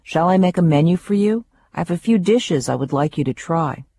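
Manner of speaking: a hint of Austrian accent, offering a menu; lightly voiced Austrian chef, eager. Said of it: "in a thick Austrian accent".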